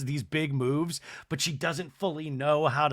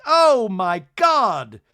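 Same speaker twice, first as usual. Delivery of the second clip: drawn-out mock gasp; 5 semitones higher, 9 dB louder, much slower than usual. Everyone gasping.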